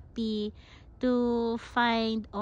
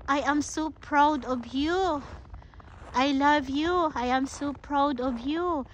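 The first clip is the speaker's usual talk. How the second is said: slow, higher, sincere I am so proud of you; tender proud words to a partner; 3 semitones higher, slower than usual. Shown as a demonstration. Vlogger showing viewers what to tell their partner, tender and slow. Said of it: "tell them or tell her, tell him".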